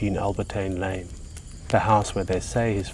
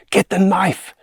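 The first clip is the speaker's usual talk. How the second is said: high, loud urgent command; shout; 10 semitones higher, 6 dB louder than usual. A narrator's reading. Boy to the girl as the beast circles, shouting. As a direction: shout the order in alarm. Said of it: "shouts little Mikey".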